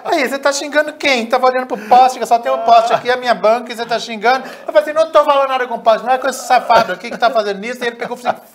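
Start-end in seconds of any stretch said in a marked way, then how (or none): 0.1-4.5 high, loud acted confrontation; indignant challenge. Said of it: "aí achou que eu surtei". 4.9-7.8 fast, high, loud protest; exasperated self-defence, voice raised; acted angry retort. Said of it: "Aí eu comecei a xingar o Franklin".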